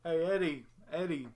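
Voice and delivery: goofy cartoon character voice, drawn out; hammed-up cartoon dimwit impression, lifted in pitch. Shown as a demonstration. Showing a doubting co-host the cartoon voice, hammed-up impression. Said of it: "I can do Ed's voice".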